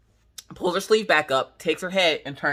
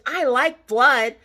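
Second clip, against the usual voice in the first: put-on slow, higher, drawn-out child line; imitated creepy relish; 6 semitones higher, 4 dB louder, much slower than usual. Girl unnerving her mother, slow imitated relish. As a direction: draw it out with eerie relish. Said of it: "the way she said it".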